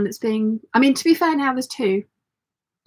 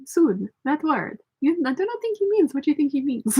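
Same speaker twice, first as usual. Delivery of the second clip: Inigo impression; 5 semitones higher than usual. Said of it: "send him a gif saying".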